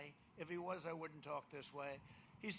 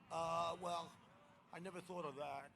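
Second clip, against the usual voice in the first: a light, mumbled impression of a dazed Biden; mock Biden. Mocking Biden's reply in debate.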